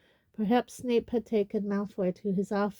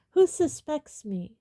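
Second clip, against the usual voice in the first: higher, loud, slow angry demand; 6 semitones higher, 5 dB louder than usual. Acted. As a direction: snap the question back. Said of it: "said Malfoy angrily".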